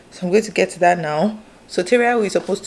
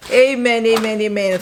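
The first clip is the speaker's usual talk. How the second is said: loud happy amens, rising; joyful amen; 3 semitones higher, 4 dB louder than usual. Real, not acted. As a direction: cheer the amens. Celebrating the award.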